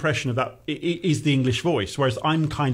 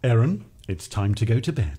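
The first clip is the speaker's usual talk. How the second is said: lower, measured bedtime line; soothing bedtime voice; 4 semitones lower than usual. Pretend. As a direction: playfully perform a soothing bedtime call on request. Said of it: "Let me hear you say".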